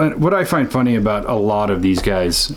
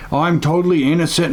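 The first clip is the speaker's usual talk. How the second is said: higher, mock-smug imitation of a self-proclaimed innocent; mocking Andrew Tate; 8 semitones higher than usual. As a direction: parody a smug guy swearing he's innocent. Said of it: "the way he talks is just like".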